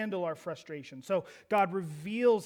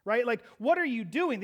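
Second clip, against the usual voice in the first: challenging God; 4 semitones higher, 7 dB louder than usual. Acted. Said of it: "It's as if Habakkuk is saying".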